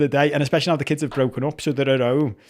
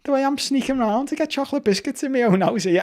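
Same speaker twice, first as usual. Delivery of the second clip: laughing at himself; 10 semitones higher than usual. Retold or imitated. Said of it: "laughing to her going".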